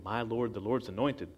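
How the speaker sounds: "My Lord, the Lord's anointed" questioned in disbelief; incredulous echo. Shown as a demonstration. Preacher echoing David's words, incredulous. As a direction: repeat it as if it can't be true. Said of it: "Wait a minute".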